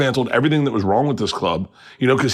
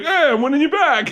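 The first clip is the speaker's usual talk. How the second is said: high-pitched crowing to the crowd; mock triumph. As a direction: imitate a comic cheerfully claiming victory. Voices comic triumphant at crowd.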